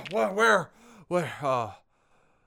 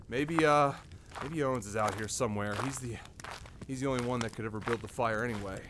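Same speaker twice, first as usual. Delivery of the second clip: low muttering; 9 semitones lower, 10 dB quieter, faster than usual. Acted. Muttering to himself.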